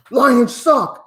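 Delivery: put-on tossing off a taunt like a kid; heckling kid in the stands, mock taunt; kid heckle. Kid heckling him on stairs.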